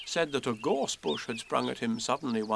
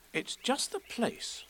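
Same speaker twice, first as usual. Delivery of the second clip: hushed warning; 11 semitones higher, 6 dB quieter, slower than usual. A narrator's reading. Christopher Robin whispering warning.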